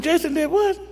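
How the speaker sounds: high, startled "did what?"; a father caught off guard, voice jumping up; astonished. Retold or imitated. Father hearing his son's hair news, startled.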